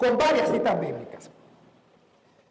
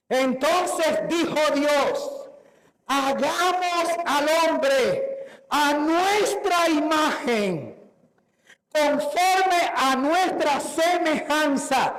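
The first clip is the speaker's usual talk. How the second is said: slow, measured Bible reading; solemn scripture reading; slower than usual. Acted. Preacher reads Genesis to the congregation, slow and solemn. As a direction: read it out slowly, word by word.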